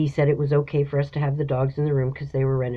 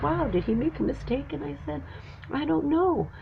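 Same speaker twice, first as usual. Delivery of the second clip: choked up; 10 semitones higher, 5 dB quieter than usual. Real, not acted. Emotional retelling of jacuzzi surprise.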